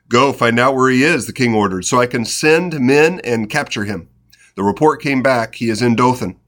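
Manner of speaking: lively, steady Bible narration; scripture reading. A narrator's reading. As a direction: read the story aloud, lightly animating the dialogue. Reads scripture aloud.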